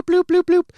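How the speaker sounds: high silly bloop noises; playful bloop sounds. Retold or imitated. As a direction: pop the bloops out quickly. Imitating quick brushing.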